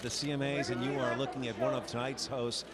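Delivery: bright, eager red carpet host; gushing red carpet chatter. Acted. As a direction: gush over the arrivals like a TV host.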